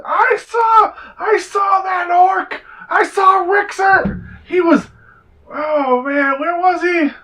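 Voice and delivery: very high, loud slurred yelling; drunken shout. Acted. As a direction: bellow like a drunk reveller. Drunk crowd shouting in street.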